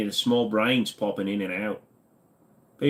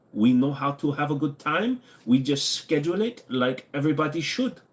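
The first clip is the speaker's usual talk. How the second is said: mock German accent; 3 semitones higher than usual. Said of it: "Sometimes I am the Germans".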